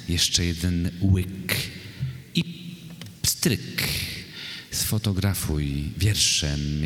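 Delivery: measured verse reading, pausing between phrases; poetry recitation. Acted. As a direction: recite the poem deliberately, line by line. Poet recites a poem. (miarowa recytacja wiersza)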